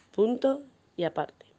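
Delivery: whispered, voiceless. Shown as a demonstration. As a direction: breathe it out in a whisper. Dictation, whispered line.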